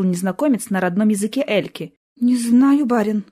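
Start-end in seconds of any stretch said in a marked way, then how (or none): 2.2-3.2 timid babble. Acted. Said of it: "пролепетала девушка".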